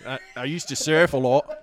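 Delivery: lightly put-on Australian accent; Geordie Thorpe. Friend recalling his bar character, in an Australian accent. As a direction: play a surfer from Perth with an Australian accent. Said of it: "I would do the Australian accent".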